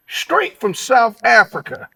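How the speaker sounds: slow, drawn-out hype call; slow hype announcer build-up. Acted. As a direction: stretch it out like a ring announcer. Hype intro of guest.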